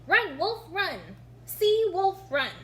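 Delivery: choppy learner reading, word by word; halting beginner reading. A narrator's reading. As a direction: sound out each word like a first reader. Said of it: "began to read".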